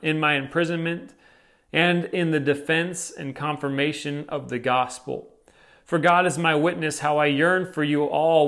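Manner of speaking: measured, formal Bible reading; scripture reading. Acted. Preacher reading the text to the congregation, measured and formal. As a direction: read the passage with reverence.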